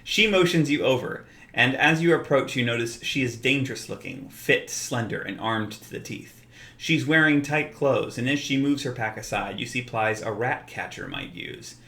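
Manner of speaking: lightly performed game-master read-aloud; story narration. Acted. Presenter reads sample tavern scene to viewers, story narration.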